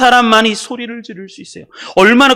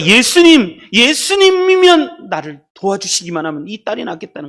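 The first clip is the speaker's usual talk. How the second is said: shouted plea; 3 semitones higher, 4 dB louder than usual. Acted. Preacher voices mother calling Jesus to heal her daughter, shouted plea. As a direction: shout the name, then ease into explanation. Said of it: "소리를 지르는 거예요".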